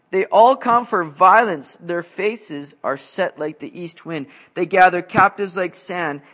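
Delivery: slow, weighty Bible reading to the congregation; scripture reading. Acted. Preacher reading verse to congregation, slow and weighty. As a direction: read it out like a prophecy.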